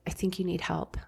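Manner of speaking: whispered quote. Retold or imitated. The coworker gently telling her she needs help, in a whisper. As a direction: hush it out like a careful confession. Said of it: "for her to say".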